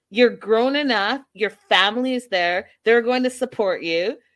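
man yelling. Recounting a man's phone call to Stacy, speaker acts out his words: retelling a yell. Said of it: "he goes on to say and he's yelling".

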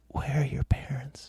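quiet, hushed, breathy put-on voice, near whisper. Retelling what he said to you between takes, imitating a quiet character voice. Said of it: "he says in his quiet, character voice".

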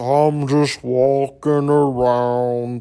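very slow, gloomy drawl, every word dragged. Show listeners the outlook on life to avoid, doing an Eeyore impression. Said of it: "That's my Eeyore impression".

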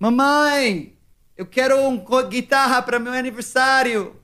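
mock very high-pitched shout. Retelling asking Mom for a guitar after seeing a video: imitating own past shout. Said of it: "eu gritei assim".

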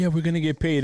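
plain

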